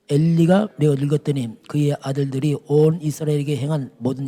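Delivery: measured, declaiming Bible reading; formal scripture read. Acted. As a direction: read the verses out with weight. Reads scripture aloud.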